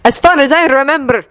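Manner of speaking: high, biting retort; spat. Acted. Victor snaps back at Yuri, bitter and angry. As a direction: spit it out with contempt. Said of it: "Victor spat".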